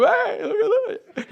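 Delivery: a delighted Peter on the water; Peter marvelling. Retold or imitated. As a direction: Peter marvelling on the waves, laughing.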